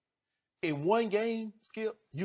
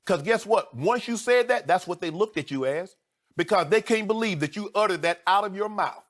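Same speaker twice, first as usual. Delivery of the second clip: higher and louder, pressing the point; heated indignation; 5 semitones higher, 5 dB louder than usual. Real, not acted. Furious rant about the interview.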